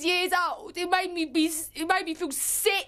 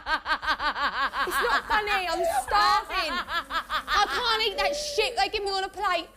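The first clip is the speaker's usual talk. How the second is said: laughing through tears. Real, not acted. Laughing and crying from hunger.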